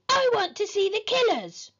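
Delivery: high tantrum whine; screamed demand. A narrator's reading. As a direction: demand it as an outraged boy. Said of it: "screamed horrid Henry".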